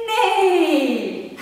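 whinny like a horse; horse neigh. Acted. Mum neighing like the horse for her toddler. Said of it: "The horse says".

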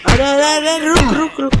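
urgent. Real, not acted. Urgent calling out in game.

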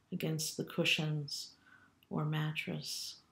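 calm, unhurried meditation guide with long pauses; guided meditation. Acted. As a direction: lead them gently through a body scan, leaving room to breathe. Leads body scan meditation.

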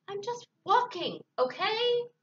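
high, loud, defensive retort; exasperated shouting. Acted. Fed-up Bird insisting to Fox, exasperated shouting. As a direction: snap it high and loud, tailing into a challenge. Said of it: "shouted Bird".

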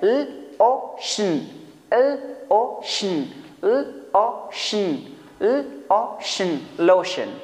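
लोशन split into ल ओ शन then blended; slow phonics blending. Shown as a demonstration. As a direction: segment slowly, then say लोशन whole. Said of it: "individual sound पे फिर से focus".

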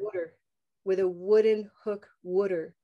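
"water" with the short oo of "wooden hook". Shown as a demonstration. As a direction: round it to "wooter". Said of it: "Some people use even".

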